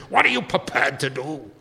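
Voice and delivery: lightly imitated movie line; a hint of a film-star impression; Sean Connery. Quoting The Untouchables, lightly imitated movie hero. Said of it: "Sean Connery, remember he was".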